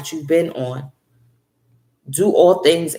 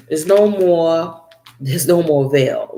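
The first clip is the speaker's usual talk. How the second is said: there's NO more veil, NO stretched out slowly; slow emphatic; 3 dB louder, slower than usual. Shown as a demonstration. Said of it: "repeats for emphasis".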